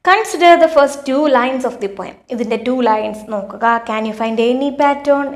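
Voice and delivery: reading the question out very slowly; slow, deliberate classroom read-aloud; slow textbook reading. Acted. Teacher reads activity instructions.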